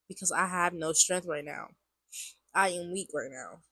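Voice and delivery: stuffy, congested voice; blocked nose. Real, not acted. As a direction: talk through a blocked nose. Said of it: "I sound so congested".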